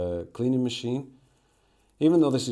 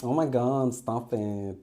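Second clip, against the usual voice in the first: imitating the viewer; 3 semitones higher, slower than usual. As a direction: act out how he'd really say it. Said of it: "let's do it how he's really doing it".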